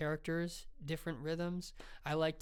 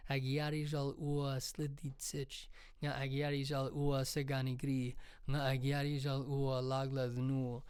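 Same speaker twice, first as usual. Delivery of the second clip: orcish poem. Shown as a demonstration. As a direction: intone it like an ancient ritual. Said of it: "strong form orcish".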